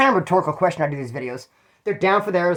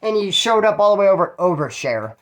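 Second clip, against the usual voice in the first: higher, teasing reproach; ribbing the driver for oversharing, higher; mock lecture, higher voice; retold scolding; 5 semitones higher than usual. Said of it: "I said".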